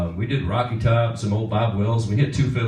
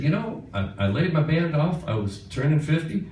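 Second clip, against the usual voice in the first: lightly imitated singer, pitched higher; a singer; 5 semitones higher than usual. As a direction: slip lightly into his higher voice. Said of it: "he said".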